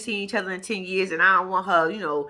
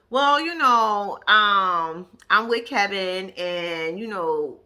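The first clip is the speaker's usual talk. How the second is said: stalling, hesitant answer; much slower than usual. Retold or imitated. Acts out Tiffany stalling.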